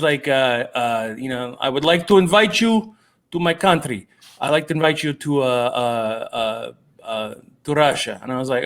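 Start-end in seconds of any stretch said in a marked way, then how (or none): 1.6-8.2 a light imitation of a Russian fan's accent. Retelling the Russian fan's invitation, a light Russian accent. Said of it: "I'm gonna say it the way he said it".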